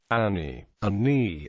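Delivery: "Ani" with a doubled n, each n sounded separately; separated double consonant. Shown as a demonstration. Language teacher showing doubled consonants, "Ani" said as An-ni. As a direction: say "Ani" as An-ni, both n's heard. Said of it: "doubled consonants must be pronounced separately".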